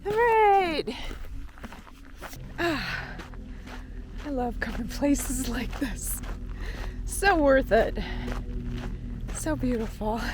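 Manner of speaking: breathless after a climb; panting between words; out of breath. Real, not acted. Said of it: "got a little out of breath doing that".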